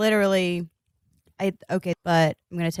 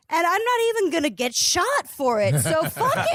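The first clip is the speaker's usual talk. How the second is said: high, breathless laugh through words; 11 semitones higher than usual. Real, not acted. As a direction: laugh it out, giddy and defiant. Laughing defiant conclusion.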